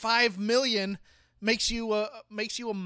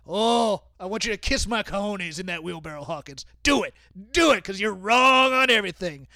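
Vince McMahon impression; 4 dB louder than usual. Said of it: "if I am Vince McMahon".

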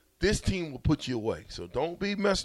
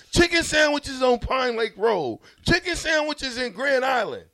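excited; 9 semitones higher than usual. Acted. Mock rant at Eric.

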